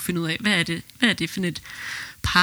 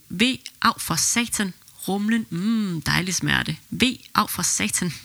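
pained groans. Retold or imitated. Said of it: "Så hed det".

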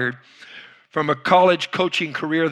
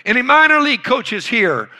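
loud, higher call to the crowd; rally the room, voice raised high; 7 semitones higher, 5 dB louder than usual. Retold or imitated. Old coach calls out to the coaches, loud and raised.

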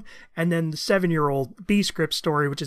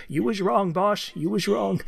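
Walter Brennan impression; 2 semitones higher than usual. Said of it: "I saw an old John Wayne movie where he's like".

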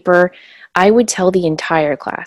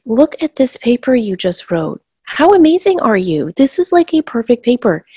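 higher-pitched, delighted praise; excited praise; 3 semitones higher than usual. Retold or imitated. Teacher praising a student's paper, excited praise. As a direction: gush over their work.

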